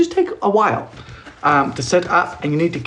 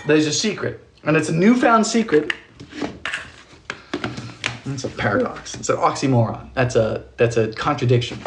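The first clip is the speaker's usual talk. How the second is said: pastor voice; 2 semitones lower than usual. Acted. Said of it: "why am I talking like a, I'm trying to be a pastor tonight?".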